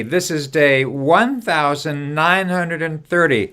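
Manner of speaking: each part of the number said slowly and clearly; slow, spelled-out number. Shown as a demonstration. Host leading viewers in repeating the day number, slow and clear. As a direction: spell out the full number, one part at a time. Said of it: "repeat this after me".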